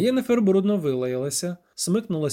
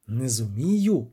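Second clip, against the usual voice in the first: through gritted teeth; 4 semitones lower, slower than usual. A narrator's reading. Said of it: "процідила вона".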